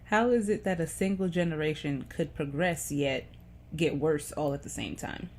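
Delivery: deliberate spoken-verse delivery, phrase by phrase; poem reading. Acted. Vlogger reads a teenage poem to viewers, measured recital.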